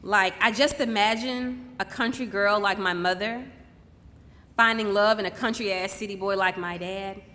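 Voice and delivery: deliberate, poetic stage delivery with long pauses; spoken-word monologue. Acted. Daughter honouring her mother on stage, measured spoken-word delivery. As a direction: let each phrase land before the next.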